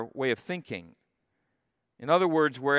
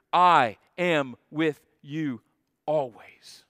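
slow solemn quote; 3 dB louder, slower than usual. Acted. Pastor quoting Jesus' promise slowly.

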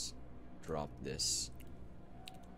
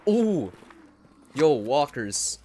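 excited shout; 5 semitones higher, 8 dB louder than usual. Real, not acted. Spots zombies, excited.

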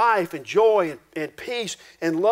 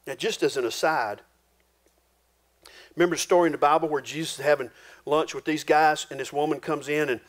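ordinary talk

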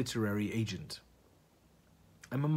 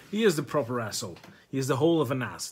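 mock rant; 5 dB louder, faster than usual. Ranting about Jack the Moth.

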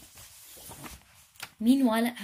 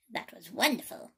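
gurgling swamp creature. Acted. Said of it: "gurgled Grotty".

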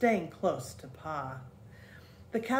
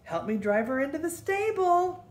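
high, loud call across the yard; father calling the girls over, louder; calling back; 8 semitones higher, 3 dB louder than usual. A narrator's reading. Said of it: "He called back".

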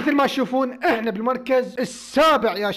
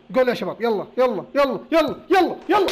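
building cheer; 2 semitones higher, 5 dB louder than usual. Real, not acted. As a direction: urge it on, climbing each time. Waiting for the penalty kick.

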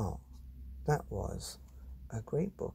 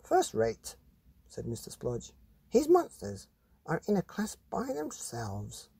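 cheerful art teacher; 4 semitones higher than usual. Acted. Art teacher Mister Spludge speaks.

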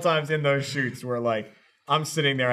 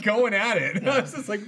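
ordinary talk, nothing marked

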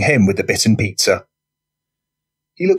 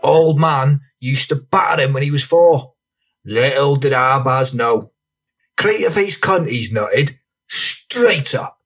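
raised, theatrical lad's yarn; rowdy storyteller; 4 semitones higher than usual. Acted. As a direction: spin a violent tale with drawn-out relish. Voices Franny telling his street tale.

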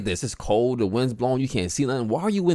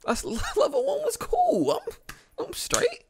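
relieved laughing; 3 dB quieter than usual. Real, not acted. Relief after level one.

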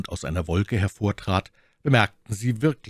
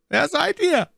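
a light hint of a commanding officer, high and loud; imperious tone; 5 dB louder than usual. A narrator's reading. Officer questioning the musketeers, mild imperious demand. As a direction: demand it as one who must be answered. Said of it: "mit demselben gebietenden Tone".

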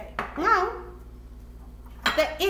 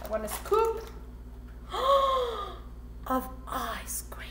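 whisper; 3 semitones higher, 9 dB quieter than usual. Real, not acted. Scooping ice cream.

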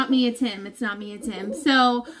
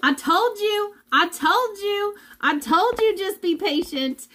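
a lightly voiced, higher God, a gentle I-told-you-so; 7 semitones higher than usual. A hint of God reminding her to be patient. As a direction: play God gently chiding her to wait. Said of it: "God is like".

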